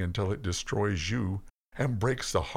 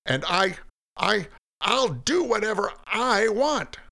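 rising, louder furious tirade; angry Cain; 7 semitones higher, 3 dB louder than usual. Acted. Cain raging at God that nobody controls him, furious. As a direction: build into an outburst of defiance.

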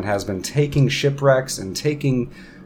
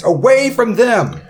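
Ront, desperate to escape; 11 semitones higher, 7 dB louder than usual. Acted. Ront tells locals to take him from the party, loud plea. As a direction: stretch it out loudly as you point away. Game master plays fleeing Ront.

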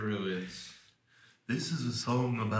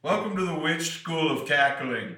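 witch teacher voice; 7 semitones higher, 4 dB louder than usual. Pretend. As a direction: play a hammy witch headmistress. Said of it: "I've been a witch for thirty years".

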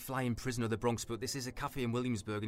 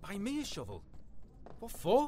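alarmed disbelief; 7 semitones higher than usual. Acted. Asking why he needs a shovel, alarmed. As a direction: pitch shoots up in alarm.

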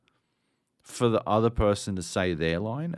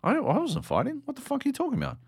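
much higher, baffled squeak of protest; indignant protest; faster than usual. Retold or imitated. His character answering the trainer, high indignant disbelief. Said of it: "And I'm like".

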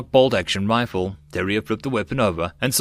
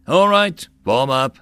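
rally the men to the doors; commanding call; 3 semitones higher, 5 dB louder, slower than usual. A narrator's reading. Leader ordering men to assemble.

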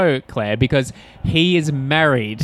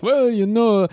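lightly put-on Jewish accent; a hint of an old Jewish comic accent; 9 semitones higher, slower than usual. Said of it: "quite a Jewish voice".

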